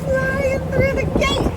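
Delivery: high, slow thrilled call; excited. Real, not acted. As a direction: cheer it out, high. Excited sailing through Golden Gate.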